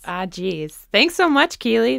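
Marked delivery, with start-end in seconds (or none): 0.0-0.7 softer, mock-Minnesota "Ah, jeez"; strong Minnesota accent. Host echoing the coach's sign-off, Minnesota accent. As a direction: echo it in a put-on Minnesota accent. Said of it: "really strong accents".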